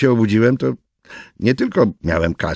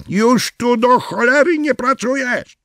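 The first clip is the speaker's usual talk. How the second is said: higher, slow triumphant shout; boss firing him; 14 semitones higher, 4 dB louder than usual. Acted. Imagined boss firing Svensson at last.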